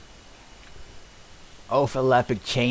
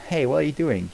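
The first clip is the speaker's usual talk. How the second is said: Hey pushed up high and loud, alarmed; louder, higher protest; 7 semitones higher, 5 dB louder than usual. Acted. Donkey yelps at Dragon touching him, louder and higher. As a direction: yelp it out, startled and offended.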